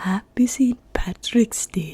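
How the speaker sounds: failed Scottish accent attempt. Wishing viewers Happy Saint Patrick's Day, attempting a Scottish accent. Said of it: "I'm gonna work on it".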